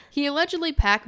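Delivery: news anchor delivery; newscaster voice. Shown as a demonstration. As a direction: read it like a TV reporter. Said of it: "that's my newscaster voice".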